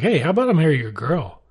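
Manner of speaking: mock eager proposal. Frenchman asks Esteban for his girl, mock eager.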